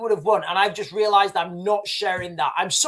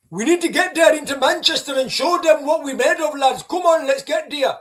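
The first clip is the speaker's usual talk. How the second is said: higher, louder hyped-up call to the lads; mock rallying lads; 6 semitones higher, 4 dB louder than usual. Imagined young men rallying their mates, in a hyped-up loud voice. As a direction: egg the lads on to Manchester, pitched up and loud. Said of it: "young men now watching this thinking".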